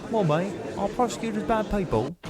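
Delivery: put-on Australian-style accent, pushing it out. Witness blurts accusations in a put-on Aussie-style accent. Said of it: "Sorry for that accent".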